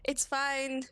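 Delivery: slow, gentle reassurance; reassuring. Acted. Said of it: "Tried to reassure her".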